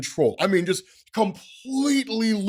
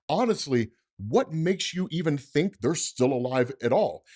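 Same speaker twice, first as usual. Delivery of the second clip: Mysterio's taunt. Acted. Voices Mysterio threatening family.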